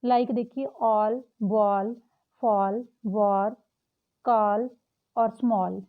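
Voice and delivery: "all", "ball", "fall" said slowly with a long open aw; teacher sounding out aw words. Shown as a demonstration. Teacher slowly models the aw sound for students. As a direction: drag out the aw in each word. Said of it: "आ की sound आएगी".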